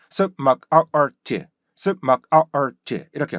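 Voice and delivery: 습, 막, 아, art in separate beats; five-beat breakdown. Shown as a demonstration. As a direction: chop 습 막 아 art sound by sound. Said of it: "다섯 개의 리듬". (소리마다 끊어 다섯 박자로)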